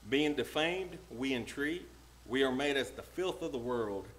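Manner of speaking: emphatic Bible reading, phrase by phrase; preacher declaiming scripture. Real, not acted. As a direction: read the passage out with punched contrasts. Reads the scripture passage aloud.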